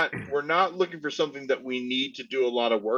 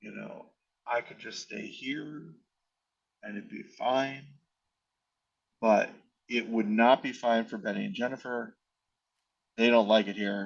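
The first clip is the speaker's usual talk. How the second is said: hushed, lowered, quiet voice; 3 semitones lower, 4 dB quieter than usual. Speaker in a conversation with another person, saying this quietly. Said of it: "I'm gonna say this quietly".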